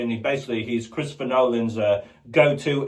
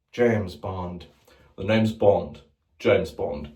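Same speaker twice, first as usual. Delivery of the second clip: James Bond; 6 semitones lower, slower than usual. Retold or imitated. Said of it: "the different James Bonds".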